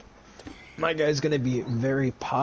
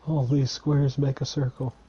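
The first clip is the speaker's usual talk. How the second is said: Mister Popo; 3 semitones higher, 4 dB louder than usual. Retold or imitated. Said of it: "my voice to be kinda like Mister Popo".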